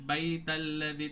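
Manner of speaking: slow বাইতাল্লাযী with no drawn-out diphthong; unstretched joined. Shown as a demonstration. Teacher contrasting joined reading with no stretch. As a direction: run বাইতাল্লাযী on without lengthening. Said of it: "তাহলে টান হবে না".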